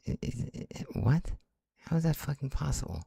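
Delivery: high, stunned outburst; real disbelief. Real, not acted. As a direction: cannot believe the loss. Disbelief after losing money.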